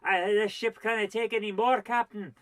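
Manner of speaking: a hint of a stern starship officer; hammed-up sci-fi officer warning the captain; Mister Spock impression. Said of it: "doing her best Mister Spock impression".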